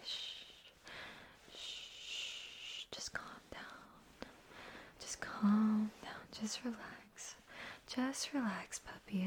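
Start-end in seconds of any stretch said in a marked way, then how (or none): 0.1-7.4 slow calming whisper; slow soothing whisper. Acted. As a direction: draw the words out to calm them. Calming crying partner.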